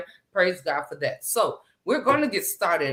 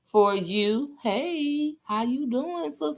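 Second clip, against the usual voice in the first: higher, breathy-flirty hello to a friend; sultry greeting voice; 7 semitones higher, slower than usual. Pretend. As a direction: greet her like a flirty crooner. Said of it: "I gotta talk like that".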